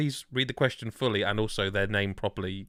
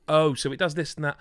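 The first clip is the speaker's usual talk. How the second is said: mock amazement; 7 semitones higher than usual. Acting out own wonder at game.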